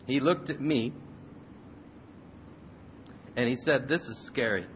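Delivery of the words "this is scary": quietly frightened. Retold or imitated. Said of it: "trying not to cry".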